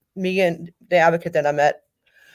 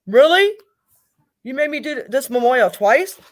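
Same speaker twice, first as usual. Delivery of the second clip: incredulous outrage; 5 semitones higher than usual. Retold or imitated. Retelling outrage at detectives.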